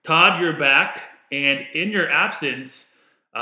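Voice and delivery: echoey room sound; big hall echo. Real, not acted. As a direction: voice bouncing off bare walls. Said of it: "If I sound a little echoey".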